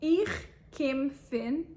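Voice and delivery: "Ich kim fin" drawn out slowly, each word clear; slow teaching repeat. Shown as a demonstration. Teacher repeating the phrase slowly for students. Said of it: "repeated slowly".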